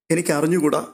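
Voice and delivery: ordinary delivery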